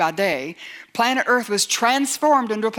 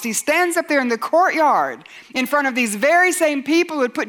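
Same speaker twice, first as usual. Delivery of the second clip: raised, higher-pitched preacher's delivery; forceful preaching; 4 semitones higher, 3 dB louder than usual. Acted. Preacher telling of Peter in the courtyard, forceful preaching. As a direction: preach it out with rising conviction.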